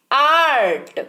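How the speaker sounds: आर्ट with a long open "aa"; pronunciation demo. Shown as a demonstration. Teacher quizzing learners on reading, pronunciation demo of आर्ट. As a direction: say आर्ट as "aart". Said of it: "क्या पढ़ रहे हैं?".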